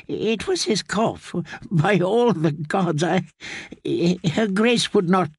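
put-on a shocked old man denying everything; frightened old maester. A narrator's reading. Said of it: "eyes grew as big as boiled eggs".

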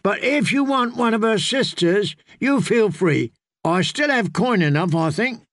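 lightly voiced tipsy generosity, starting high; drunken jovial singer. Singer offers friend one of the sisters, lightly tipsy. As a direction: offer it freely, a touch drunk.

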